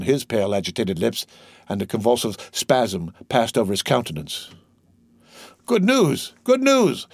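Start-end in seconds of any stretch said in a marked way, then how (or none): 5.7-7.1 high, loud calling out; shouting. A narrator's reading. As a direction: call it out from the balcony. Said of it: "shouted forth one of the party".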